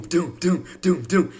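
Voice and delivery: thumping heartbeat imitation, doom doom; heartbeat sounds. Shown as a demonstration. To chat explaining entry nerves, heartbeat imitation. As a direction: mimic a racing heart with doom doom. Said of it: "your heart is just doom".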